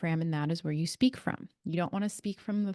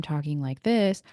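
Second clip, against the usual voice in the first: projected from the diaphragm, louder; loud belly voice; 3 semitones lower than usual. Shown as a demonstration. Showing viewers how a diaphragm voice carries, loud and projected. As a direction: push it out from the belly so all can hear. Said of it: "One, people are gonna hear me".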